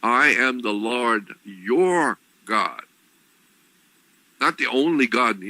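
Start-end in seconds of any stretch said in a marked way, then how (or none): 0.0-2.8 slow, deliberate, each word weighed; read slowly. Shown as a demonstration. Preacher rereads the commandment slowly to his listeners, slow and deliberate. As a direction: lay out I am the Lord your God word by word. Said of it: "Go back and read it slowly".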